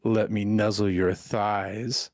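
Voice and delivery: a hint of slow kitty roleplay; lightly voiced, teasing cat recital; cutesy cat-maid act. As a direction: draw out the cat lines to torment a friend. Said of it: "I will torture you, San, with three lines".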